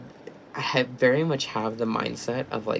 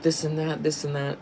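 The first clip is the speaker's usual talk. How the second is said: higher, pleading retold wife; upset Taylor; 4 semitones higher than usual. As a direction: pitch up to plead a little. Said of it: "Taylor was like".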